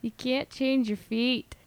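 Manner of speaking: put-on slow, tentative Celtic accent with "fate" as "feet"; half-successful mock Celtic accent; weak accent attempt. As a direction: have a shaky go at a Celtic accent. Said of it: "I can't do it. Not very well".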